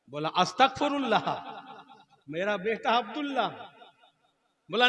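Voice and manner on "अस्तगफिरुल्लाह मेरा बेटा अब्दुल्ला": raised voice easing off; mock indignant protest. Cleric defends kissing his son, indignant. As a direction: protest with hammed-up shock.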